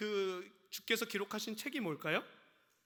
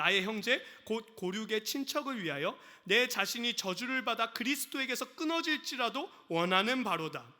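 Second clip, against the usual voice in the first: scripture reading. Shown as a demonstration. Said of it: "제가 읽어드리겠습니다".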